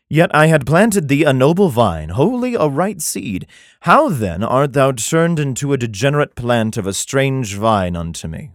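measured, solemn Bible reading; scripture reading. Acted. Comedian reads Jeremiah to his audience, solemn scripture reading. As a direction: read it like King James scripture.

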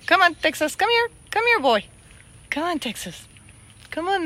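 ordinary talk, nothing marked

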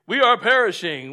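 stiff formal declamation. Shown as a demonstration. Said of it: "We don't say".

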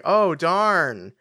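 mock-casual, drawn-out question at the end; feigned nonchalance. Harry feigning nonchalance about the breakup. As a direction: imitate someone playing it very casual. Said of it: "very nonchalantly being like".

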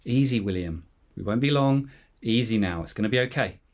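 measured, mildly soothing imitation of grandpa; lightly acted calm grandfather; controlled calm. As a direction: keep it controlled, as if steadying someone. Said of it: "very slowly and in a controlled voice".

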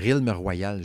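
"Realm Royal" drawn out slowly, "Royal" as "rwa-yal"; slow retry of "Realm Royal" with French r's; French-accented English. Real, not acted. Host struggling with English, slow French-accented "Realm Royal". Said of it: "j'ai de la misère avec mon accent anglais".

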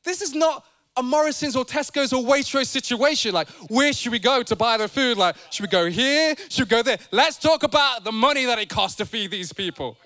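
flustered disciple listing shops in disbelief; flustered Philip. Retold or imitated. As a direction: spell out the impossibility, flustered. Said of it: "Philip saying".

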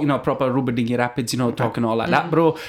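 put-on a light take on a Four Lions Sheffield accent. Showing the accent once mistaken for Mancunian, Four Lions Sheffield accent. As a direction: imitate the film's Sheffield accent. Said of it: "the way they talk".

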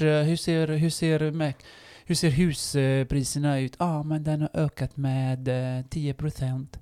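slow, measured parody of a finance host; mock strict finance podcast. Podcaster imitating a strict finance podcast, slow and measured. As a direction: plod through it like a dry waltz. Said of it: "där är det ju väldigt strikt sådär".

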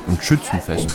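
hissed under the breath, appalled; disgusted whisper. Acted. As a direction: whisper it as if the word tastes bad. Scientist's disgust at the festival.

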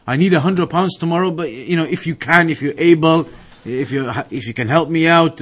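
mock-hesitant plea for a loan from a friend; tentative asking. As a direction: ask as if afraid to burden him. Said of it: "very tentatively".

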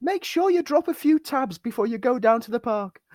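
high cartoon cat voice; squeaky cartoon cat advice. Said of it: "Charlie says".

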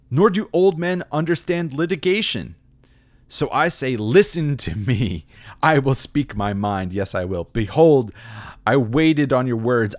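booming self-important youth lecturing his elders; pompous blowhard. Acted. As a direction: read it like an arrogant young know-it-all. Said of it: "This is why he's a blowhard".

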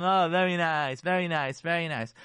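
mock-approving, drawn into a sneering repeat; sarcastic. Wife answering her husband's criticism with sarcasm. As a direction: repeat it with biting fake approval. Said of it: "or sarcasm".

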